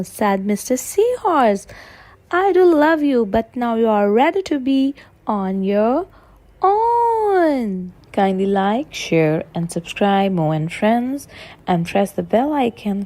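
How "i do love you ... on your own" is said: tender. Acted. Tender farewell to baby.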